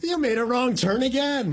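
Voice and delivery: high laughing mock Cockney sat nav. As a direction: giggle through the sat nav's scolding. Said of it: "I got it set to Cockney".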